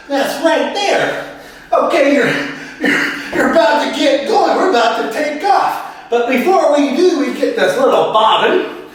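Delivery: lightly put-on tutorial host; walk viewers through it as a comic presenter; mildly hammed-up how-to voice; sewing YouTuber character. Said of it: "the sewing machine operator man with a YouTube channel".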